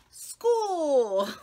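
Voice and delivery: high loud happy shout; excited cry. Acted. Happy girl exclaiming about school, thrilled cry. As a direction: cry it out with delight.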